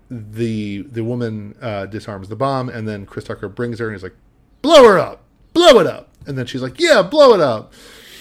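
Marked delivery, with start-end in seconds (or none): 4.6-6.1 loud, high-pitched mock shout; retold shout. Retold standoff, bluffing to blow her up. 6.8-7.7 loud, high echoing yell; retold shout. Retold woman shouting along.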